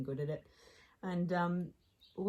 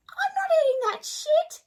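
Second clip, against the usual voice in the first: much higher, loud indignant outburst; 15 dB louder than usual. Retold or imitated. Naive Australian refusing the maggot cheese at dinner, loud high outburst. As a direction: blurt it out across the whole table. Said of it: "Like, so loud".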